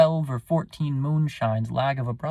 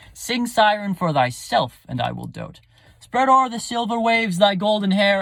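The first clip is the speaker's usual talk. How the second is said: swept away by a siren; enchanted suitor begging a woman; smitten lover; 3 dB louder than usual. Acted. Recites Antipholus wooing.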